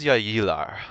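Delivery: "Jag gillar" spoken as native Swedish; Swedish phrase. Shown as a demonstration. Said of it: "we'll use".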